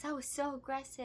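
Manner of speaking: high-pitched imitation of an offended man; mock offended complaint. Mimics man's offended complaint.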